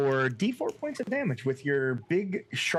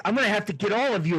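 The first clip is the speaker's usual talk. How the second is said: acted threat; 8 semitones higher, 4 dB louder, faster than usual. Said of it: "He's like".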